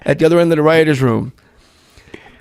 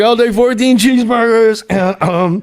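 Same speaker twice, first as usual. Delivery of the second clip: pitched-up rattled-off order; Farley ordering; 6 semitones higher than usual. Retold or imitated. Farley on camera reading the long order, pitched up. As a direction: rattle off the big order, higher. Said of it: "he's like".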